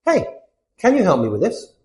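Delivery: straightforward friendly request; direct, friendly. Acted. Teacher demonstrates American English request, direct but friendly. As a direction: ask plainly and casually for a hand. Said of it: "more direct but friendly".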